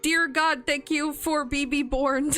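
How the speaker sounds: slow, teary, laughing thanks; slow thanks broken by laughing and tears; laughing through tears. Real, not acted. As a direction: laugh while choking up.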